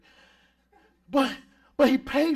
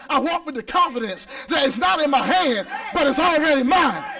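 louder, higher, driving the point home; rising preacher shout; 3 semitones higher, 4 dB louder than usual. Real, not acted. Preacher building to a loud peak for the church.

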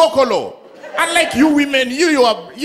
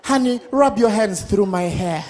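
wife's request; 4 dB quieter than usual. Retold or imitated. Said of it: "a white woman can tell the husband".

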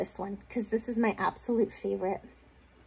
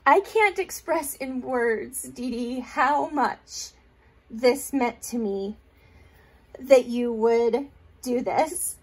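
holding back tears; slower than usual. Real, not acted. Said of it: "I'm gonna try really hard not to cry".

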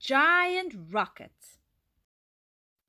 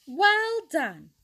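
higher-pitched, lightly amused praise; impressed chuckle; 5 semitones higher, 4 dB louder than usual. A narrator's reading. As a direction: say it as mildly tickled, impressed praise. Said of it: "he chuckled".

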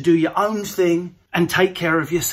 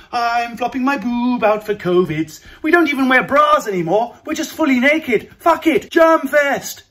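higher, louder brash party voice; mock anaesthetist; 4 semitones higher, 4 dB louder than usual. Mocking a doctor flashing for covid, brash. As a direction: play the shameless doctor with a grin. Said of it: "here comes an anaesthetist with her tit flopped out".

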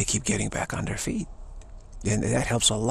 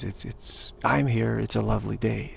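lightly voiced, level-pitched aristocrat; a hint of unruffled upper-class British; aristocracy. Aristocrat declaring the day fine, mildly unruffled. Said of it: "the aristocracy says".

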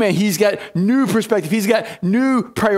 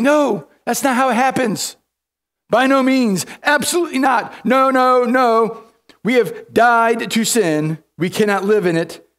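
emphatic refusal; 5 semitones higher than usual. Retold or imitated. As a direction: slam the door on the idea. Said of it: "Paul's like".

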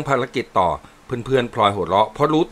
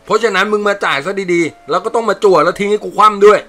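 loud, higher quarrelling soldier voices; rowdy soldiers bickering; 8 semitones higher, 5 dB louder than usual. Acted. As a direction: squabble like rough army buddies over money. Soldiers bicker over card debt.

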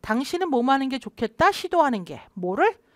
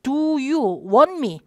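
casual phrasing; 3 semitones higher, 3 dB louder, much slower than usual. Shown as a demonstration. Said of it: "친한 사이에는요".

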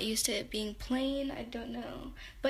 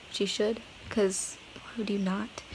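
whispered aside; 2 semitones lower than usual. Real, not acted. Joking aside to viewers.

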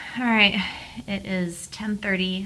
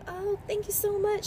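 grateful thanks; 13 semitones higher than usual. Retold or imitated. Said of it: "And I'm like".

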